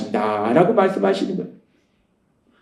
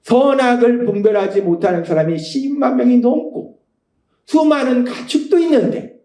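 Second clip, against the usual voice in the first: God speaking gently; 3 semitones higher than usual. Retold or imitated. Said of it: "하나님이 말씀하세요".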